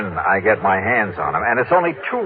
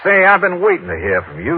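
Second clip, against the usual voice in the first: higher-pitched put-on Texan voice; Texas drawl; 8 semitones higher than usual. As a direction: play the rich Texan in a drawl. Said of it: "using my best Texas drawl".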